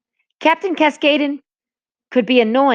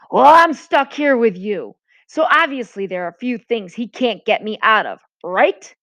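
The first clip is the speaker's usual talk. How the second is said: louder, mildly angry retort; furious; 3 semitones higher, 3 dB louder than usual. Acted. J J furious, leaning into Luke's face, mildly raised. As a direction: snap back in J J's face.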